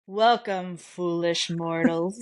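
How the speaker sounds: slow, spooky Ghost Host greeting; a hint of a booming villain host. Shown as a demonstration. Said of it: "I'll start off like this".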